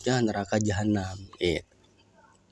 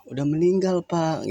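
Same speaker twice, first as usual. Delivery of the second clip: reply as the grieving heir; voiced heir; 7 semitones higher than usual. Heir telling the rich man he died, higher voice.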